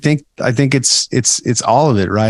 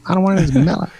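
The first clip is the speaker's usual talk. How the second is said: put-on old-timey gangster; 8 semitones higher than usual. Joins the old-timey bit.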